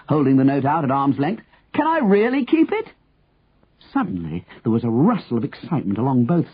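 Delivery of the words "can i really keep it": high, disbelieving shouted question; calling back. A narrator's reading. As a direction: call up high, hardly believing it. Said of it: "the man called back".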